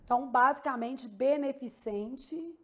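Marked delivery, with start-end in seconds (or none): 1.1-2.6 beneficente slowly and carefully sounded; marking the syllables. Shown as a demonstration. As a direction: say beneficente at half speed. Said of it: "marcando as sílabas tônicas aqui".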